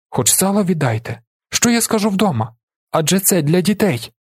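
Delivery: high-pitched desperate plea; begging. A narrator's reading. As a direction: beg for mercy on the children's behalf. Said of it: "вона благає повернути їй сало". (благально, високим голосом)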